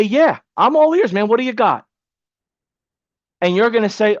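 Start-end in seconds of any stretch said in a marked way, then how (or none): 0.0-1.9 pitched-up, keen prospect; eager business owner. Pretend. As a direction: ask it like an eager buddy. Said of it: "I say".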